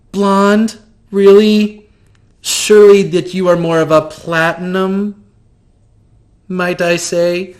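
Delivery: high, gushing theatrical voice; flamboyant shopkeeper. Acted. GM greeting the player as eccentric shopkeeper, high and gushing. NPC critiquing hair color.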